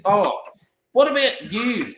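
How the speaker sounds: put-on high, lilting old-lady question; imitated curious resident. Resident turning to another lady, imitated high curious voice.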